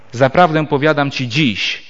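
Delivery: "ci dziś" joined, phrase closing on "dziś"; comma after dziś. Shown as a demonstration. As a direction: run "Zaprawdę powiadam ci dziś" together, then stop. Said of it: "Przecinek powinien być postawiony".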